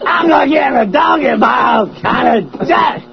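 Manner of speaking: Chris Rock. Acted. Host adding an absurd line, Chris Rock impression. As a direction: stretch it out like a stand-up bit. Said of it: "That's Chris Rock".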